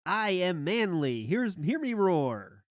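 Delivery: slow, drawn-out mock machismo; mock manly posing. Host mocking the storyteller's pose, slow hammed-up manliness. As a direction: stretch each phrase like a strutting he-man. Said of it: "That pose of".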